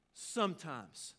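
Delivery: "Sometimes." stretched out very slowly, falling at the end; slow repeat. Shown as a demonstration. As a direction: let "Sometimes." linger, slow and deliberate.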